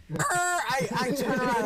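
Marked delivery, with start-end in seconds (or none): 0.1-0.2 high creaking noise of stiff bones; drawn-out mock creak; imitated creak. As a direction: creak like a rusty hinge while turning. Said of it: "I hear the creak of my bones".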